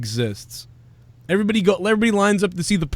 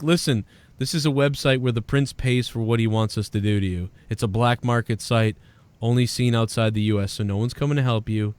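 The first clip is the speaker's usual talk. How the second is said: low, controlled captor voice; menacing captor; 6 semitones lower, 3 dB quieter than usual. Acted. Captor telling his victim about the black market site, menacing. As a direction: lay out the threat in a low voice. Plays captor explaining the prank.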